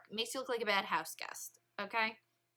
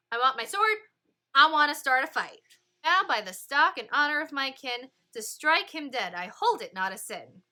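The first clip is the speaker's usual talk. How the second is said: louder, higher furious declaration; angry Tybalt; 4 semitones higher, 8 dB louder than usual. Acted. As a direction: spit out the threat like a brawler ready to fight. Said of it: "He's like".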